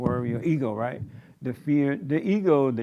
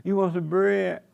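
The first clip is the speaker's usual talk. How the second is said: sweet mama offering; 5 semitones higher than usual. Retold or imitated. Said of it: "You know how the quiet mama".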